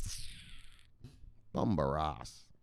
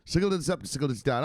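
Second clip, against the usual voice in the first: the host's signature line, belted high; catchphrase callout; 5 semitones higher, faster than usual. Acted. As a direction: sing out the show's catchphrase. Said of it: "say it how we say it".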